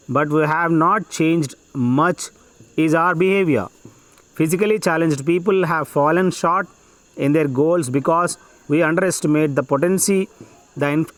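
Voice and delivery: measured, phrase-by-phrase passage reading; dictation reading. Acted. Teacher dictating an exam passage to students, measured dictation. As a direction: read it out slowly in short chunks with pauses.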